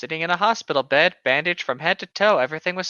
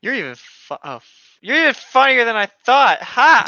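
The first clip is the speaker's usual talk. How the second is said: laughing; 6 semitones higher, 7 dB louder than usual. Acted. Laughing dramatic reading of fanfic.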